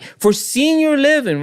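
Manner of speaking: sneering slow air quotes; sarcastic emphasis. Retold or imitated. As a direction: drag the phrase out to mock it. Sarcastic repeat of a policy phrase.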